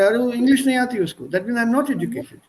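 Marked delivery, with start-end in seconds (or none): 0.0-1.3 dismissive scoff. Retold or imitated. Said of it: "It's said in such a manner".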